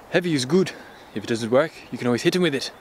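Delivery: lightly attempted Russian gangster accent; badly faked Russian accent, quoting a film; terrible Russian accent. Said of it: "That was a terrible Russian accent".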